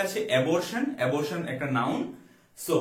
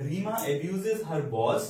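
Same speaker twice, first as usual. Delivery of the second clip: slow dictation; much slower than usual. Shown as a demonstration. Teacher reads example sentence slowly.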